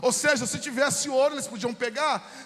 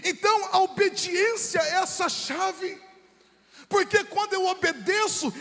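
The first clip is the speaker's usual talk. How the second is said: forceful preaching; 3 semitones higher than usual. Real, not acted. Preacher warns the church about disobedience, forceful and raised. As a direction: drive each phrase out to the congregation.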